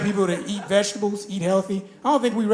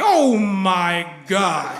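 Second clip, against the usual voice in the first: gasping shock; 2 semitones lower, 4 dB louder, much slower than usual. Retold or imitated.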